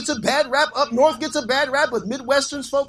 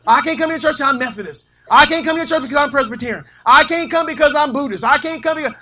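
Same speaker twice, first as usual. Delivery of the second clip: lightly mimicked excuse-makers, higher pitched; churchgoers' excuses; 4 semitones higher, 3 dB louder than usual. Church people turning down the preacher's invitation, mock excuses. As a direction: rattle off each excuse a bit higher. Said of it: "Some people say".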